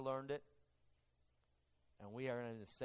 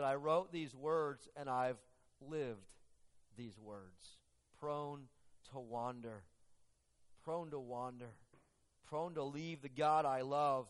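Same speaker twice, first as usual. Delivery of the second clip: tearful; slower than usual. Retold or imitated. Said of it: "through the tears".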